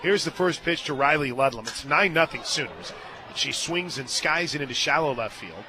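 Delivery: excited softball commentary; live play-by-play. Real, not acted. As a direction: commentate a tense fly ball, peaking mid-play.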